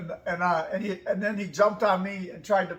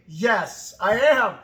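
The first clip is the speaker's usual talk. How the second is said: louder, punched yeah; emphatic yes; 6 dB louder, much slower than usual. Real, not acted. Answering the trainer emphatically. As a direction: insist on it, firmly.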